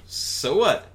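high, fast comic Alf. Acted. Alf voiced.

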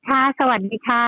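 bright, upbeat greeting; cheerful voice. Real, not acted. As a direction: greet them brightly, smiling. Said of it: "พี่ก๊อฟวันนี้เสียงสดใสเลยนะคะ".

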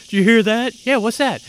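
high, loud, slow stoner drawl; stoner surfer voice. Retold or imitated. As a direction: play a dazed surfer dude. Acting Sean Penn phone scene.

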